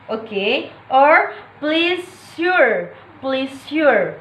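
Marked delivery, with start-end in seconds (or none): 1.6-4.1 "pleasure" stressed on PLEA, falling away; stress on first syllable. Shown as a demonstration. Teacher giving an example to viewers, PLEAsure stressed up front. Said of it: "primary stress on first syllable".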